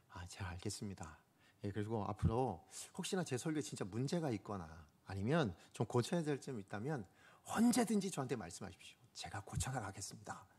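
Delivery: humble reply. Retold or imitated. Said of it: "이렇게 딱 말씀을 드렸어요".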